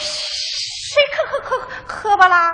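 soft, slow stammering denial; frightened stammer. Acted. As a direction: stutter in fear of being caught. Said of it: "还直磕巴".

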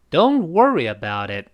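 don't and WOR of worry lifted high. Shown as a demonstration. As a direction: pitch up don't worry, drop after. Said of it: "don't和worry读得比较高".

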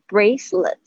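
"bracelet" with a full ay glide in the first syllable; smiling A diphthong. Shown as a demonstration. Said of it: "A这边是发微笑的那个A的双元音".

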